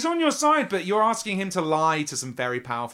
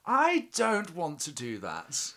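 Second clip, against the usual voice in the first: nervous refusal; 8 semitones higher, slower than usual. Acted. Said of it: "and goes".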